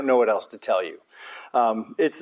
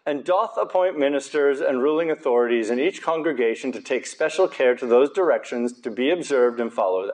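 fake British accent. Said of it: "I'm speaking in a fake British accent".

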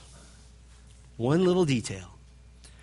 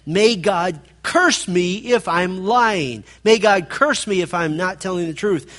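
raised, emphatic self-curse; self-cursing oath; 4 semitones higher, 3 dB louder than usual. Acted. Peter cursing himself to back his lie, raised and emphatic. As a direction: call down a curse, punching the words. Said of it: "he calls down a curse on himself".

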